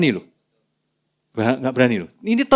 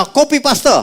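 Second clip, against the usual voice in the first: squeaky mock voice; 12 semitones higher, 4 dB louder, slower than usual. Disciple copying others.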